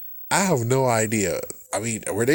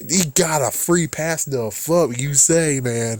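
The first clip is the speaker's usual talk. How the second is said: incredulous; 4 semitones higher, slower than usual. Real, not acted. Incredulous rant.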